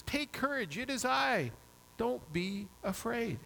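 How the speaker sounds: gently reassuring, lifted voice, slowing at the end; reassuring Jesus. Retold or imitated. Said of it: "this voice says".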